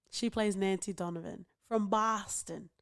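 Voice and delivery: light Boston accent on the line. Shown as a demonstration. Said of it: "That's my Boston accent".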